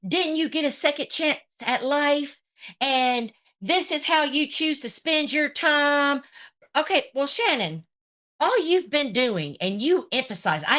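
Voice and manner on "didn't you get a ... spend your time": mocking retold reproach. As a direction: parrot her preachy question back. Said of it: "follows it up with saying".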